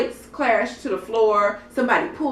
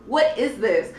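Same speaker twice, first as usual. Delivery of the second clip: higher-pitched, exasperated disbelief with a laugh breaking in; worked-up, laughing indignation; mock outrage; 3 semitones higher, 3 dB louder than usual. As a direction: protest it, incredulous and half laughing. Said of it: "I was so mad".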